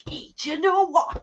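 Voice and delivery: sister greeting strangers, high and loud with joy; excited high call. Retold or imitated. Imitating sister on the metro, excited high voice.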